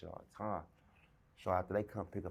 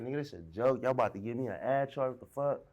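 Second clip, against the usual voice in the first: louder, higher, disbelieving; looking around at guards, asking if it's a joke; incredulous outburst; 4 semitones higher, 4 dB louder than usual. Retold or imitated. Alarmed, louder disbelief. Realizes guards set up a fight.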